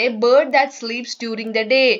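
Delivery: slow, careful textbook reading; reading aloud. Shown as a demonstration. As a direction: read each word out slowly for the class. Teacher reads textbook English slowly.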